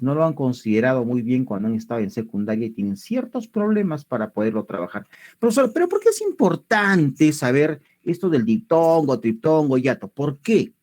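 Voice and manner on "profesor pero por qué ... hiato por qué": a hint of a questioning pupil; voiced student question. Student asking teacher why the topic matters, lightly voiced questioning.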